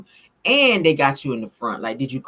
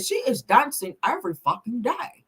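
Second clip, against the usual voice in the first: higher-pitched mock British accent; exaggerated British vowels, imitating a rocker; 4 semitones higher than usual. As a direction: put on the rocker's British accent, badly. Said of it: "he got that British accent".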